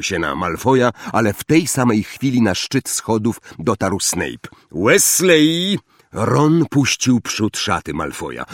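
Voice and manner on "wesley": high, raised call of rebuke; sharp reprimand. A narrator's reading. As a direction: call out the surname to stop a fight. Teacher catches Ron starting a fight. (ostre, podniesione upomnienie)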